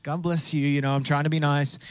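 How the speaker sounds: quietly forced politeness through a fake smile; a touch of sarcasm, sweetly; sarcastic niceness. Preacher recalling being fake-nice to the cashier, softly sarcastic. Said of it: "with a sarcastic smile on my face".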